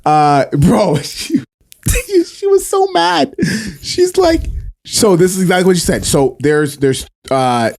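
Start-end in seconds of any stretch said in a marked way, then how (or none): 1.0-4.4 excited high. Real, not acted. Telling friends about the angry cleaner, excited and high. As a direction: voice jumps way up in disbelief. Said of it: "retelling, voice jumps high".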